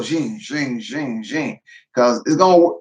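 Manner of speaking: repeated zinging saw noise; rhythmic run of spoken zings; imitated sawing sound. Shown as a demonstration. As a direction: mimic a wire saw, stroke by stroke. Imitating a hand saw's motion.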